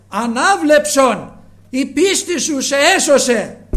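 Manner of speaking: the Lord to the blind man: slow, loud, solemn command. Acted. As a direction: proclaim the healing word with authority, drawn out. Voicing the Lord's healing command.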